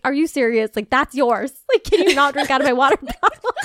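mock-upset question breaking into a laugh; half-laughing at her own pet peeve; laughing annoyance. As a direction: complain while cracking up. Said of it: "Like, I got upset".

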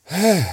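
big voiced sigh of relief; sighed exclamation, pushed out hard. A narrator's reading. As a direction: let out a high, loud "hè". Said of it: "zuchtte Kees".

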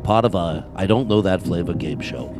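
Regis game show host. Acted. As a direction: play the suave quiz show host.

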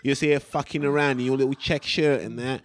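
lightly voiced cockney gym geezer; a hint of an old East End trainer; Terry.

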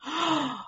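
a sudden high intake of breath; startled high gasp; sharp gasp. A narrator's reading. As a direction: gasp in shock at a thought. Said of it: "heard his wife gasp".

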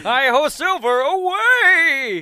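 loud high cowboy shout; silly clown. Retold or imitated. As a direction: yell it like a hammy cowboy. Lone Ranger shout impression.

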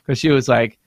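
normal talking voice

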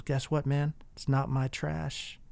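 soft, lightly faked Jamaican accent; bad Jamaican accent. Jamaican driver shrugging off another man's anger, in a faint, bad Jamaican accent. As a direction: attempt a Jamaican accent, ending slow and quiet. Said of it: "a horrible Jamaican accent that I'm gonna use".

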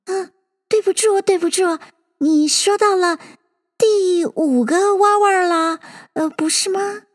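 high, meek little voice; meek and hesitant, pitched high; humble apology. A narrator's reading. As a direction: apologise humbly, feeling for the answer. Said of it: "很谦虚的道".

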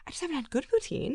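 mocking a friend like a nagging mom, high and whiny; mom imitation. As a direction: nag like an offended mother. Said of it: "You sound like my mom".

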